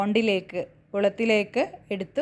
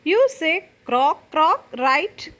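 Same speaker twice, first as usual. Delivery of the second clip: puppy's voice; 6 semitones higher, 4 dB louder than usual. Acted. Teacher voicing puppy asking frog.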